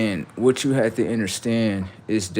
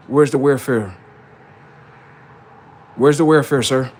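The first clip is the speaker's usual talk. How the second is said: taunting; 3 semitones higher, 6 dB louder than usual. Acted. Taunting question repeated louder.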